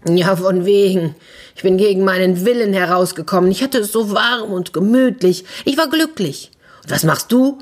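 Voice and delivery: climbing, aggrieved protest; indignant complaint. Acted. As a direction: complain with mounting pitch, lightly acted grievance. The fart complains to the woman.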